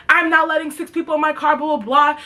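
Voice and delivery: mocking retold objection, blah-blah dismissal; retold refusal. Retold driver refusing in argument.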